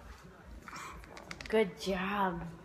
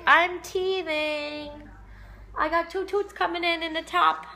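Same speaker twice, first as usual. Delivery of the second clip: slow, slightly raised mock baby voice; voicing the baby; 3 semitones higher, 3 dB louder than usual. Mom voicing her teething baby for the camera, light baby voice. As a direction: speak for the teething baby, drawn out. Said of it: "That's what you say".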